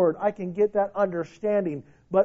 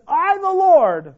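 booming voice of God; 8 semitones higher, 7 dB louder, slower than usual. Acted. Preacher voices God's declaration.

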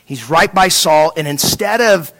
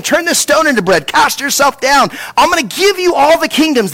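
a lightly voiced tempter, pitched higher; the enemy coaxing Jesus in the garden, mildly voiced and higher; tempter's voice; 6 semitones higher than usual.

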